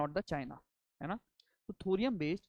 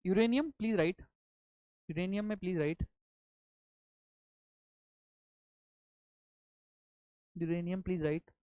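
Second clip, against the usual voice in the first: dictating. Shown as a demonstration. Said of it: "let me dictate now".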